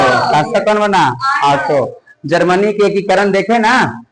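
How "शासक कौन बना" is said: शासक कौन बना called out to the class; teacher repeating a quiz question louder. Real, not acted. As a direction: call the question out to the room.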